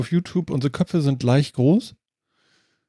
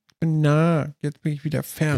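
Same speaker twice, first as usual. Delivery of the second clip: Grobi voice. Retold or imitated. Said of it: "Grobi oder so?".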